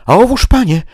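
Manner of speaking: high, loud triumphant cry; Sancho gleeful. Acted. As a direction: crow it out, pleased with your trick. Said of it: "zawołał Sancho, mocno rad".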